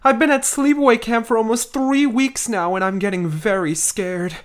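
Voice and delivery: put-on reading a frightened kid's letter home; mock-worried camper writing home. Reads camp letter in character.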